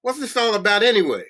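high-pitched shouted demand; roaring. A narrator's reading. Guard breaking up the beating, high roar. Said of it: "I roared".

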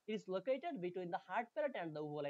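slow, careful English text reading; slow reading aloud. Shown as a demonstration. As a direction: read each word out slowly for students. Reads English text slowly. (ধীরে ধীরে পড়ে শোনানো)

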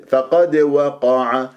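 فقد said slowly with a short bounce on the qaf; quick qalqala. Shown as a demonstration. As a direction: tap the qaf of فقد and release it fast. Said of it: "تضرب المخرج وتهرب". (قلقلة سريعة على القاف)

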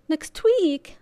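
loud, high outraged question; a child appalled at the dentist, shouting back; shocked. A narrator's reading. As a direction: protest in disbelief.

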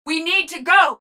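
high-pitched call to move; urgent shout. Acted. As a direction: push the squad to leave. Urging retreat in combat.

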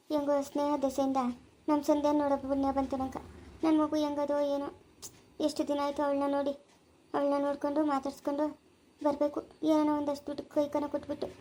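soft wistful musing. Acted. Mother longing for her daughter.

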